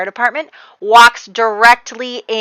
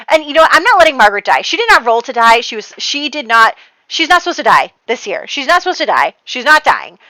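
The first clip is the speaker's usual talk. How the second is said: louder, insistent protest; animated; 3 semitones higher, 4 dB louder than usual. Real, not acted. Player defending her sim to viewers: loud insistent protest. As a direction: refuse to let her die, fast. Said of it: "my throat is, like, hurting from being so animated".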